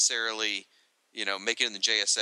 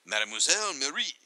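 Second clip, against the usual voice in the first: put-on French-accented name, a little higher; 4 semitones higher than usual. Reading out a French heroine's name in a French accent. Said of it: "I like your French accent".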